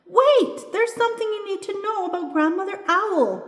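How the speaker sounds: high, loud, urgent yell; high-pitched calling out; yelling after her. A narrator's reading. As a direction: shout a warning after someone running away. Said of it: "yells Buffalo Boy".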